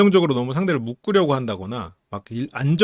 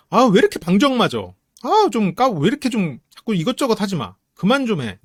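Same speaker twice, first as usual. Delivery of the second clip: mock scolding; 5 semitones higher, 3 dB louder than usual. Acted nagging at dopamine type.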